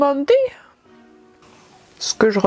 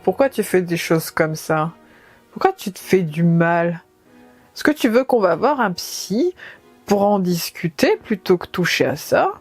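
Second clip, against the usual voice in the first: lower, disapproving inner voice; scolding inner voice; 4 semitones lower than usual. Pretend. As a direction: scold yourself like a worried parent. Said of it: "une deuxième partie qui, elle, se dit".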